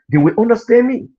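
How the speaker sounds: normal talking voice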